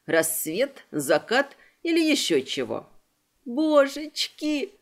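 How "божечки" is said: sobbed. Acted. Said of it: "всхлипнула Салли".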